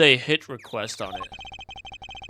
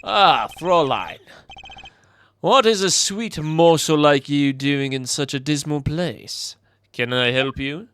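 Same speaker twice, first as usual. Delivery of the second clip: slow, suave, lightly British charmer; British accent; 3 dB louder, slower than usual. Acted. Charmer greeting a Fräulein at a dismal place, British accent. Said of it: "I'm still gonna keep the British accent".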